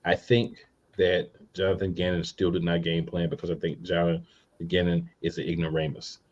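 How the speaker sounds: calm, even and controlled; calmer voice. Real, not acted. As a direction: hold it down, deliberately calm. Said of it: "I'm gonna say this in a calmer voice than normal".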